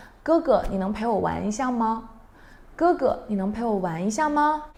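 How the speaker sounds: little brother pleading. Acted. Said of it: "your younger brother said".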